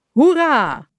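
high, loud hurrah; juichend. A narrator's reading. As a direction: cheer like a party crowd. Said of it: "riepen ze". (hoog en luid juichend)

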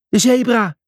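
high roaring shout. Acted. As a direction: bellow the demand. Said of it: "brulde hij".

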